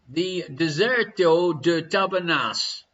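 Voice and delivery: slow, hammed-up Portuguese accent. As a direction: say it slowly in your finest mock Portuguese accent. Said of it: "in my finest Portuguese accent".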